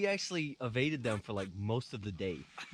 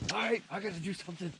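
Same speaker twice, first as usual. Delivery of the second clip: mock restless guard; 9 semitones higher than usual. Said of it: "the dude watching would be like".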